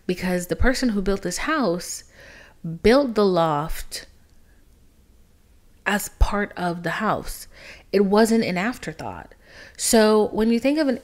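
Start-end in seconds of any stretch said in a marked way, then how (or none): 2.8-7.5 emphatic whisper. Acted. Stressing the loft's design.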